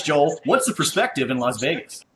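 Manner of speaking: lightly voiced TV news anchor. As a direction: hand over to the reporter, anchor style. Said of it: "In my best anchor voice".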